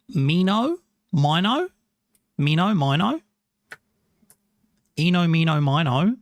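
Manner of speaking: mino said with a long ee, mee-no; mino pronunciation. Retold or imitated. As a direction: say mino as mee-no, rising each time. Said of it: "Minnow, not mino".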